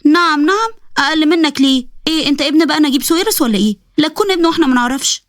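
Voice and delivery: a hint of a sassy young woman; mocking girl. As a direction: taunt him, pitched a bit up.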